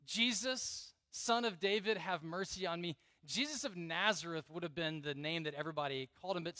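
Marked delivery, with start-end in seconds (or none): 0.0-3.0 mild imploring cry, raised then easing down. Retold or imitated. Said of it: "crying out, out loud, audibly".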